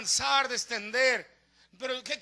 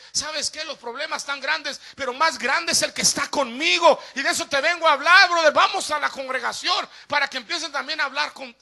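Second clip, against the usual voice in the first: loud, building, upbeat invitation; confident pep talk rising to a shout; spirited encouragement; 7 dB louder than usual. Acted. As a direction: act out a fired-up believer rallying a friend. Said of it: "Pero usted va con ánimo".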